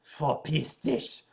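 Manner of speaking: put-on "Verpiss dich" low and slow like a grumpy old man; angry old man. Shown as a demonstration. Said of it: "like an angry old man".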